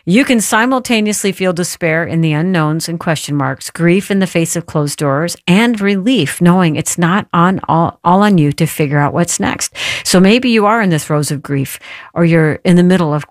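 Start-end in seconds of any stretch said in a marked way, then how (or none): 0.1-9.7 deliberate re-reading of a quote; slow reading. Real, not acted. Host repeating a good quote from the guest's book, slowly. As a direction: read it aloud slowly, leaning into each phrase. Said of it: "I'm gonna read it slowly".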